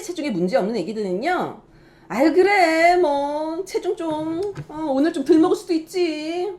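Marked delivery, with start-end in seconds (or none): 2.1-6.5 relaxed reassurance. Shown as a demonstration. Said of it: "그렇게 해줘야지".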